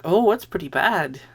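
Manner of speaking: lightly put-on accent of a wise Jedi; Obi-Wan accent. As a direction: slip into a mild Jedi-master accent while quoting. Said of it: "I started to do an Obi-Wan accent".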